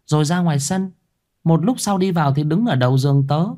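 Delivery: put-on a scared girl pleading to be believed; young girl voice. A narrator's reading. Young girl Thư insisting.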